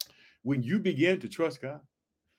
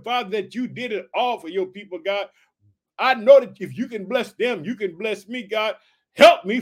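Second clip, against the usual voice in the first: higher, fervent prayer; bold prayer; 3 semitones higher than usual. Acted. Believer praying boldly to God for rescue, higher. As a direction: stand firm and call on God.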